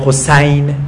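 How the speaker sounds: Arabic-style حسین with an open "a"; fatha pronunciation. Shown as a demonstration. Teacher shows the heavier vowel, حسین said Hosayn. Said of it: "فتحه همیشه از کسره".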